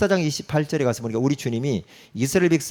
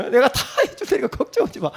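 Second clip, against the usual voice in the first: teasing God; 9 semitones higher, faster than usual. Acted. God voiced again, reassuring.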